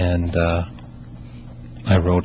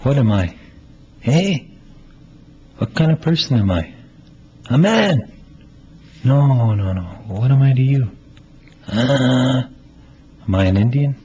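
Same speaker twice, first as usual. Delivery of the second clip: lightly voiced young man, a little higher and louder, searching; Melvin; 4 semitones higher, 3 dB louder than usual. Playwright reads Melvin pressing his friend, lightly pleading. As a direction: press your friend for who you are, half-pleading. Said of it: "And he's talking to Nigger in this one".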